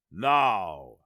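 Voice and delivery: low, smooth villain; unhurried silky opener. A narrator's reading. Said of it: "Askar said smoothly".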